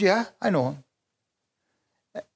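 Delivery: put-on slow, drawn-out older man; a slow, mildly voiced older man; Emmett's reply. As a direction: drag it out like the old coworker.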